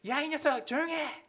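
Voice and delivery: high, loud mock telling-off; scolding teacher. Teacher scolding a talkative child, loud and sharp. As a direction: bark at the unruly kid. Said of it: "이렇게 하면서".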